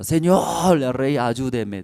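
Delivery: acted plea for help, first word drawn out; mild retold cry. Woman begging the king for help, mild mock cry. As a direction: call out to the king, easing off after. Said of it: "señora, y gritaba".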